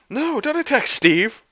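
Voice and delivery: high, slow, loud acted command; urgent shout. A narrator's reading. Tony commanding his attacking robots.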